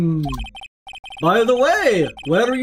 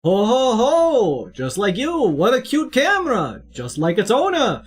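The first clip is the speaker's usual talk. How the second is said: put-on Jewish accent. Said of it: "now I'm hearing the Jewish accent".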